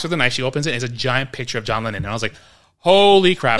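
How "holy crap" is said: high, loud amazed outburst; big astonished exclamation, played for laughs; awestruck shock. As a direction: act out being floored. Acted shock at a singer's picture.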